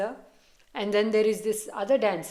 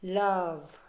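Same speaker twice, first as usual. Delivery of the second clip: one word in a slightly odd accent; lightly accented, strange falling "Love"; a touch of a weird accent; 2 semitones lower than usual. Real, not acted. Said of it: "said it in such a weird, weird, uh, accent".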